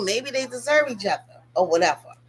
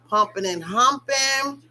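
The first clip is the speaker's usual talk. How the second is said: slow emphasis; 3 semitones higher, slower than usual. Real, not acted. Repeated slower.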